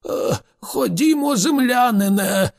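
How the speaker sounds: put-on high-pitched, agitated old man's urging; excited. A narrator's reading. Slartibartfast tugs Arthur by the sleeve, excited. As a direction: urge him along, excitedly. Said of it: "збуджено сказав Сларті Бартфаст".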